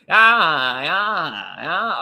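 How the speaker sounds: mock yell "ah, ah, ah". Mimicking the yelling on the panel, mock yell. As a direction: imitate someone yelling, half-hearted. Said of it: "It ain't one person yelling".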